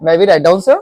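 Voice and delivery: gentle, polite ask to the teacher; polite student asking permission; polite request. Shown as a demonstration. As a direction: ask nicely, no edge. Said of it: "politely बोलना है".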